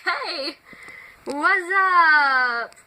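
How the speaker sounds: high, loud, drawn-out greeting; outgoing annoying kid. Acted. Lexi the annoying kid greeting people, loud and outgoing. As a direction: act an over-friendly kid hollering hello. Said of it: "That one outgoing, annoying kid".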